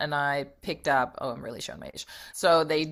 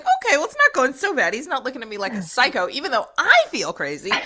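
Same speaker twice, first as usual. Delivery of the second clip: nervous self-talk; 7 semitones higher, 3 dB louder, faster than usual. Retold or imitated. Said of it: "So I was like".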